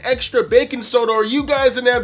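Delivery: high, loud heated retort; exasperated yelling. Retold or imitated. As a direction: re-enact shouting sense into someone, exasperated. Retold argument with the customer.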